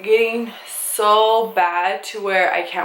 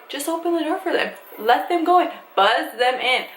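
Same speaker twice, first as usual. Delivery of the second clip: exasperated plea; 6 semitones higher than usual. Retold or imitated. Acted plea to the door attendant.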